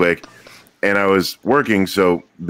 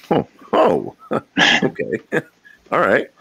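squeaky, rising mock excitement with little laughs; imagining the surprise, voice climbing high; nervous inner excitement; 9 semitones higher than usual. Husband picturing wife's surprise, giddy high voice. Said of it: "So I'm thinking".

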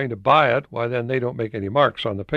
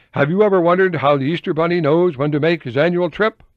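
higher, louder sing-song question; catchy opening line; 6 semitones higher, 5 dB louder than usual. Retold or imitated. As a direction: pitch it like a children's hook.

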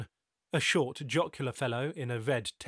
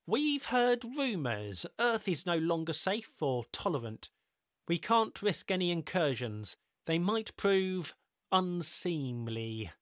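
lightly voiced smooth stranger; measured, knowing and patient; calm mysterious host; 6 semitones higher than usual. Ricardo voiced in the story.

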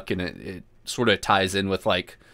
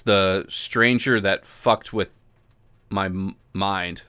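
slow dramatic; slower than usual. Shown as a demonstration. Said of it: "The Stranger That Fucked With My Mind".

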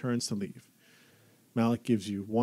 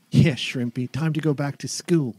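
teasing; 4 semitones higher, 7 dB louder than usual. Acted. Older brother teasing.

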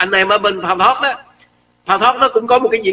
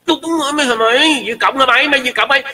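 angry yelling; 7 semitones higher than usual. Retold or imitated. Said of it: "Mình".

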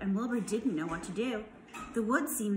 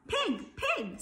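high, kindly coaxing call; 9 semitones higher than usual. A narrator's reading. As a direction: lightly coax the pig. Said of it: "in a kind voice".

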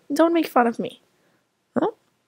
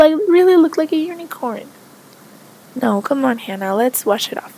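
firm mom. Acted. Mother insists on rinsing.

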